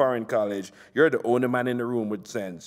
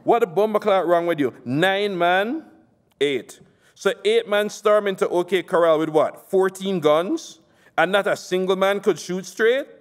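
angry politician; 5 semitones higher than usual. Acted. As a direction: chew him out for the failed hit. Nasser berating on phone.

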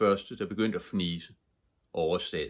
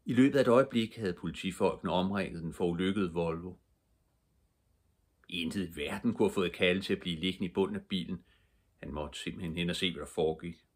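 ordinary delivery

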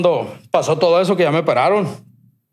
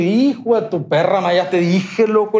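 higher, fed-up griping; exasperated rant; 4 semitones higher, slower than usual. Retold or imitated. Fed up with doctors' questions.

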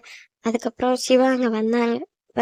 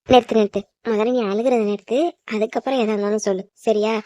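firm cut-in, starting forceful; impatient order; 3 semitones lower than usual. Acted. Sister ordering a crying girl to stop, impatient. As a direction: cut them off and lay down the rule.

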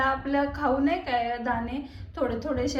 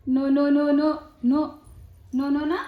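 louder repeated no; firm no; 4 dB louder, slower than usual. Real, not acted. Stopping the baby.

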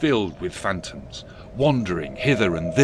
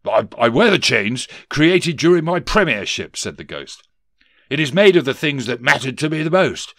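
wailing; 4 semitones higher, 7 dB louder than usual. Acted. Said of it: "Johnson Marley wailed".

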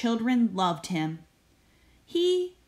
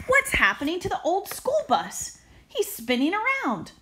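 alarmed teacher; 8 semitones higher than usual. Acted.

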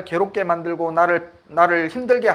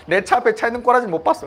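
quick, laughing through the words; amused confession, sped up with laughter; 5 semitones higher, faster than usual. Real, not acted. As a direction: rush it out with a chuckle. Laughing at his own road rage.

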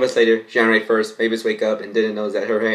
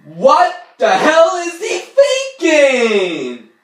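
high, slow, stunned "what the hell"; shocked outburst; 5 dB louder, much slower than usual. Real, not acted. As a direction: blurt it out in disbelief, pitched way up.

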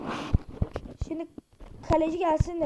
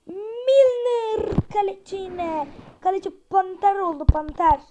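excited praise; 3 semitones higher, 6 dB louder than usual. Real, not acted. Keeper saves, excited praise.

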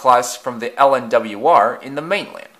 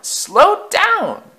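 much higher, louder panic; shrieking wail; 5 dB louder than usual. A narrator's reading. Coaches panicking at speed, shrieking wail. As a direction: scream it in terror. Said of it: "they wailed".

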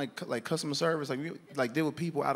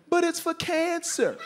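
high, slow, stretched-out comic yell; screaming; 12 semitones higher, slower than usual. Retold or imitated. Customer yelling while guards push him out, hammed-up high yell. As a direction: wail it as they drag you out. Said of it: "As I'm screaming".

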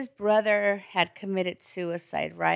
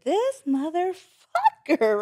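seething; 8 semitones higher, slower than usual. Retold or imitated. Retold inner fury.

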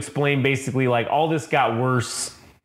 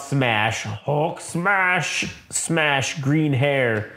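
hammed-up brute cry without real volume; mock Hulk yell; much slower than usual. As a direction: imitate a dazed monster's battle cry. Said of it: "And he yells out".

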